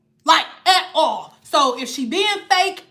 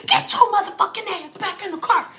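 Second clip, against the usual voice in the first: mock angry order; 5 semitones higher than usual. Grandma ordering the kids, retold.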